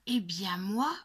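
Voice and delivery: put-on loud, high, stubborn child's cry; child shouting. A narrator's reading. Little girl insisting to her dad on camping, shouting. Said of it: "crie Lulu Grenadine".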